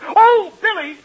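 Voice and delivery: high sung-out call across the room. Acted. Host calling the hostess over at a party, high call. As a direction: call her over brightly.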